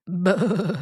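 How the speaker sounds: a short goat bleat. Acted.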